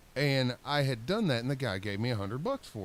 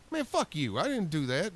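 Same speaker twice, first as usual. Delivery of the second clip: tags 1; 5 semitones higher than usual. Retold or imitated. Angry denial to the boss.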